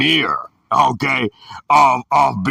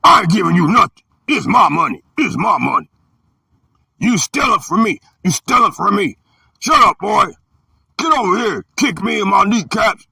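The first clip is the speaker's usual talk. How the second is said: higher, fast, mocking yell; angry stepfather; 7 semitones higher than usual. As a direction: scold and taunt the boy. Adults quarrel with kid, retold.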